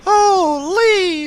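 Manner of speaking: sudden high, loud yelp of surprise; startled exclamation. Real, not acted. Gamer startled by a new character, high loud yelp. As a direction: caught off guard, blurt it out.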